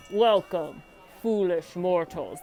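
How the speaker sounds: slow, spooky welcome; ghost host voice. Shown as a demonstration. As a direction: drag out foolish mortals like a ghost host. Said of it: "imitate the ghost hostess".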